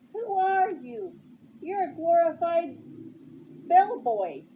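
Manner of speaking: put-on stamp out each word like a spoiled child; temper tantrum. Superintendent lashing out at bellboy, childish tantrum. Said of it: "sounded like a child having a temper tantrum".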